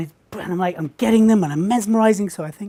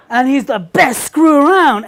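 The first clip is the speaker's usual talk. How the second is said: laughing through the line; 4 semitones higher, 4 dB louder than usual. Retold or imitated. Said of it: "went like this".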